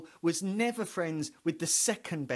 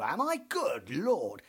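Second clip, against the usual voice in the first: Hastings; slower than usual. Retold or imitated. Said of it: "And he'd go".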